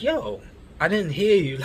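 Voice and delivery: high-pitched mock-indignant retort; retold protest. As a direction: push back with the pitch jumping up. Protests after being told off.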